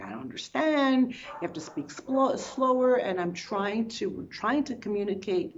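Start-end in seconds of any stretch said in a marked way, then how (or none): 0.0-2.9 raised, pleading voice; urgent plea. Retold or imitated. To the Spanish-speaking man, raised pleading voice. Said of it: "I'm like".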